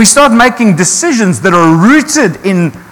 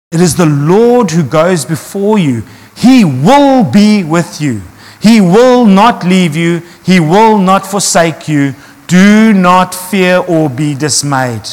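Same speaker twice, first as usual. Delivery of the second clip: slow, weighty reading of the promise; scripture reading; slower than usual. Acted. Preacher to congregation, reading Deuteronomy slowly and solemnly. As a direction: let each "will" land slowly and firmly.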